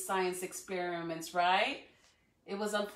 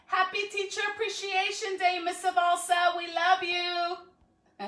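higher, louder happy greeting; excited greeting; 7 semitones higher, 6 dB louder than usual. Real, not acted. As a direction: cheer her on as she joins. Greeting a teacher joining live.

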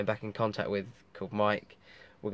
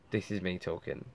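blocked nose; 6 dB quieter than usual. Real, not acted. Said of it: "I'm sorry my nose is blocked".

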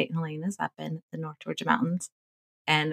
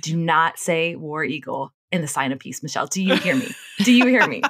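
mock stern warning; 5 dB louder than usual. Husband warns wife in Mass, rising to a louder insistent warning. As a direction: warn her, more urgent each time.

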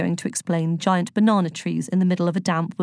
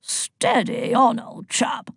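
slow, drawn-out, higher-pitched rebuke; scowling reproof; 5 semitones higher, much slower than usual. A narrator's reading. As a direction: stretch it out like an affronted old gent. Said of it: "scowled Zeus".

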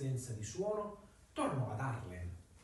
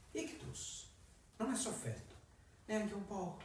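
cat voice; 7 semitones higher, 6 dB quieter than usual. Acted. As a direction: speak as a sly talking cat. Cat explains.

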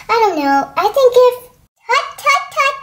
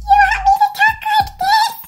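much higher squeaky try at a lady voice; 14 semitones higher than usual. Shown as a demonstration. Sam trying a higher ladylike voice for her friends, squeaky high. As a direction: push the voice way up, testing it. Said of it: "I can't talk that high".

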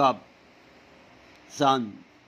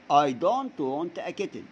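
slow model sentence; 3 semitones higher, much slower than usual. Shown as a demonstration. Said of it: "teacher models sentence for class".

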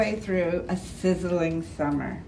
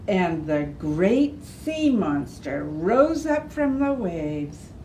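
lively storybook reading; reading to children. A narrator's reading. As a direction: read it to the kids with gentle emphasis. Reads a picture book aloud.

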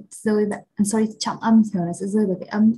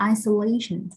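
isolation with LA stressed; isolation, main beat just before the ending; stress on third syllable. Shown as a demonstration. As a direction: lean on the LA in isolation. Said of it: "trọng âm rơi vào âm thứ ba".

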